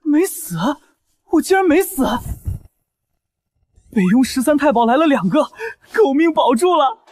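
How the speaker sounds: 劫后狂喜；又高又响的惊喜大喊；死里逃生喜出望外；劫后余生的狂喜. Acted. 死里逃生狂喜.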